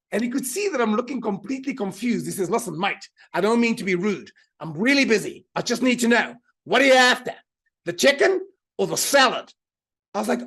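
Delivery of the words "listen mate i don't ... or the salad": Aussie bogan, building to a loud question; broad Australian accent. Retold or imitated. Busy maitre d' to confused diner, broad Australian accent. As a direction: intense waiter in broad Australian, punching the ending. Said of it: "in this very broad Australian accent".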